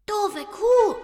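very high, whiny cat insult; high-pitched cartoon cat, cross; spiteful cat. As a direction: squeak an insult as a huffy cat. Cat hisses insult in thought.

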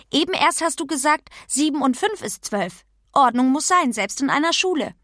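leicht gespielte, empörte Kinderstimme; vorlaute Pippi. Acted. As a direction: weise die Lehrerin frech zurecht. (vorlaute Pippi-Stimme)

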